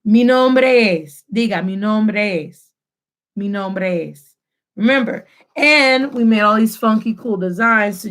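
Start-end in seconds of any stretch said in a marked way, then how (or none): 0.0-1.2 "nombre es" joined with a lengthened shared E; slow but connected model phrase; fluid linking. Shown as a demonstration. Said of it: "make you sound more fluid". 1.6-4.4 "nombre es" meshed on the shared E; slow, connected repeat-after-me phrase; fluid linking. Shown as a demonstration. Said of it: "make you sound more fluid".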